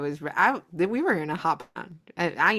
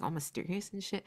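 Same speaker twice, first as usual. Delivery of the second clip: whisper; 9 dB quieter, faster than usual. Retold or imitated. Describing friend's quiet mood.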